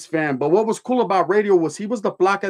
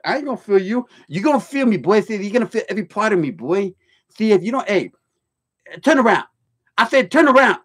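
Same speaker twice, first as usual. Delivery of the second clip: mock drill sergeant yell, higher; Major Payne voice; 4 semitones higher than usual. Guard barking at an inmate to turn around, mock drill yell. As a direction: bark orders like a guard. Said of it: "he had that Major Payne voice".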